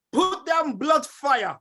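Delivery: slow, drawn-out call to the crowd; slow rallying call. Real, not acted. Host asks listeners to post, slow call. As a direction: drag the words out as a summons. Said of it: "I wanna see some blood fire".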